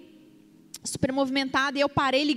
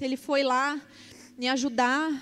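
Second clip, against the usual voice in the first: ordinary talk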